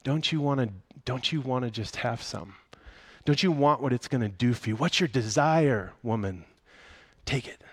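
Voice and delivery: lightly voiced coaxing serpent; a hint of the sly serpent tempting Eve; tempting snake. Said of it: "What the snake is trying to say".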